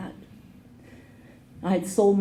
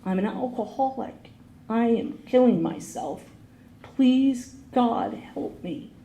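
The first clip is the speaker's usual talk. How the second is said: crying plea; 3 semitones higher, slower than usual. Retold or imitated. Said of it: "I just started to cry".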